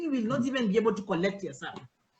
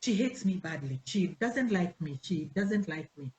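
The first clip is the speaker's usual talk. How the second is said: sulky self-pity; 5 semitones lower, 5 dB quieter than usual. Retold or imitated. Hurt member sulking about the pastor's wife, mock self-pity. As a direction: whine it like a wounded member.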